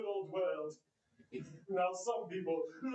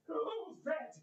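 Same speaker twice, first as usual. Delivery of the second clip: excited; 10 semitones higher than usual. Acted. Scrooge at nephew's door.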